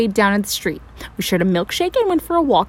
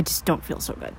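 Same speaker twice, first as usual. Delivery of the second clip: faint whisper; 6 semitones lower, 10 dB quieter than usual. Acted. Feeling faint, unvoiced.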